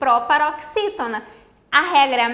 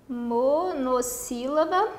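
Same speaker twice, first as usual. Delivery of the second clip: "monossílaba" slowly spelt out in syllables; 4 dB quieter, much slower than usual. Shown as a demonstration. Teacher writing out the term for students, slow syllabic "monossílaba". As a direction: dictate "monossílaba" at half speed, piece by piece. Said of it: "É uma monossílaba, palavra de uma sílaba só".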